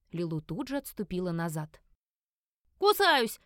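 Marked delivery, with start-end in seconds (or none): 2.8-3.4 loud high yell; yelling at the top of her lungs. A narrator's reading. Enraged creature screaming at the family, loud. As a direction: bellow it at them. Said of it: "орала я во всё Мараново горло".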